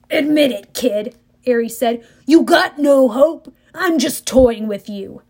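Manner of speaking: loud, slow mocking villain; taunting war god. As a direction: toy with the kid. Ares taunting Percy.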